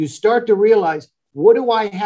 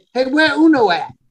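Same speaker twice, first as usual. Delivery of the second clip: casual, offhand buddy voice, pitched up; 7 semitones higher than usual. Retelling what a buddy always said about a friend: imitating a buddy. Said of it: "That's what my one buddy always said".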